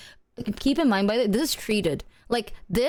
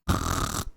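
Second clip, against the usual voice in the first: mock snore; 4 dB quieter than usual. Acts out falling asleep again.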